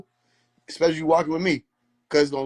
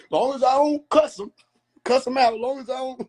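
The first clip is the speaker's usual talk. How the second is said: laughing while talking; 9 semitones higher, 3 dB louder than usual. Real, not acted. Laughing at his own joke.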